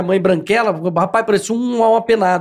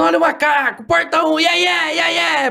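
high mock game-show shouting; hammed-up TV host chant, much higher; imitating TV host yelling; 8 semitones higher than usual. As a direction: belt it like a TV host at a gym. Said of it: "ele tava gritando".

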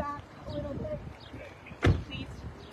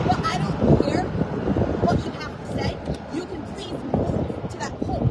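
exasperated angry; 3 semitones higher, 8 dB louder than usual. Real, not acted. Owner snapping at camera crew.

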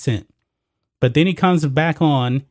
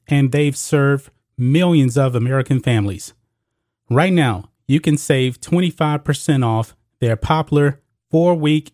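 measured, scripted promotional read; sponsor ad read. Acted. Host urging viewers to prepare, scripted ad read. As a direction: pitch it to listeners as a sales message.

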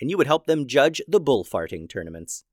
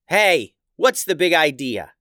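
a touch of louder indignation; demanding; 3 semitones higher, 4 dB louder than usual. Acted. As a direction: confront him, demanding answers. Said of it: "demanded Simon".

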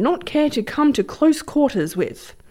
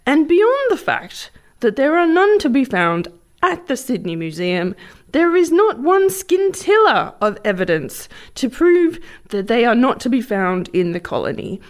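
pompous reading voice; 4 semitones higher than usual. Shown as a demonstration. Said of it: "the voice you're putting on".

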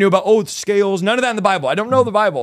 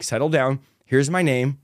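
low-key, settled reply; retold calming down; 3 semitones lower, slower than usual. Preacher giving his name to excited convert, calmly. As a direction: imitate a calm preacher reining someone in.

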